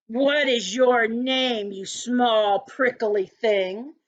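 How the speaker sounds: slow, unkind rhino voice, drawn out. Acted. Rhino sneers at a porcupine, slow and unkind. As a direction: loom over the little porcupine. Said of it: "asked the rhinoceros unkindly".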